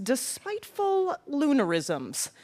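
"Despiteful Lunarisms" with swapped first sounds, slow; jumbled syllables. Shown as a demonstration. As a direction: spoonerize "Despiteful Lunarisms" deliberately. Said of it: "Delightful Spoonerisms".

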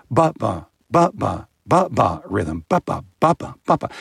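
ba-ba with the first ba stressed; stress on first syllable. Shown as a demonstration. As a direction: chant ba-ba, leaning on the first syllable. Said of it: "in English".

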